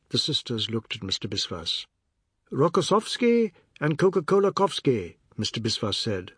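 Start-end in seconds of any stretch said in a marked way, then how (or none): 2.5-5.2 mildly irritated, mocking names; a little annoyed. A narrator's reading. Biswas teasing Oad, a touch annoyed. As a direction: toss off the silly name, a touch annoyed. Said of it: "a little annoyed".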